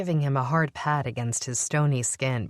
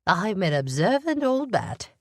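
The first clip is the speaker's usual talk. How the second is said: smiling, a touch higher and louder; with a smile; 7 semitones higher, 4 dB louder than usual. A narrator's reading. Old woman teasing the captain about herself, smiling. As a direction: grin through the words, teasing herself. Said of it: "she said with a smile".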